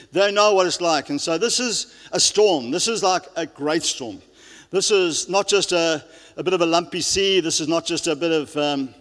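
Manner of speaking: loud, driving sermon voice; preaching at full force. Real, not acted. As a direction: preach it out to the whole hall. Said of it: "I've been shouting a bit now".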